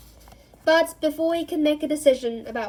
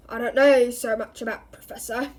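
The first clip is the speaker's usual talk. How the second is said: growling Moody; 5 dB louder than usual. Acted. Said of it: "growled the voice".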